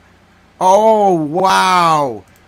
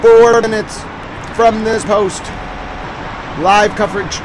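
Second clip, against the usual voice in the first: mock news bulletin. News-style bulletin read.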